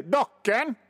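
high sudden party-trick blurt. Retold or imitated. Party guest blurts a name when nobody's funny, sudden high blurt. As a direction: fire the name off out of nowhere. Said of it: "bara häva ur sig".

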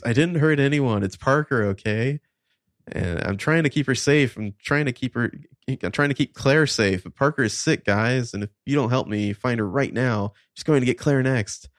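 lightly acted desperate insistence; pleading confession. Julie finally confessing to her friends, pleading.

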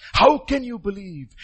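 "How can you believe?" slow, falling, at normal pitch. Real, not acted. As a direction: ask it again, slowly. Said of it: "repeated question, slow".

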